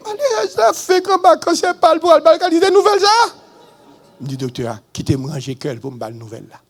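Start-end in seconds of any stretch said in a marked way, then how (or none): 0.1-3.4 high shout at the bad news. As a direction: yell out in stunned disbelief. Reacting to the news.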